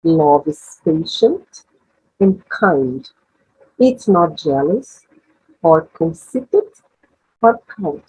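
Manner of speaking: slow, measured English model reading; leitura modelo em inglês. Shown as a demonstration. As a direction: read each phrase slowly, with pauses for listeners to absorb. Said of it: "tentem internalizar esses novos sons". (leitura lenta e pausada em inglês)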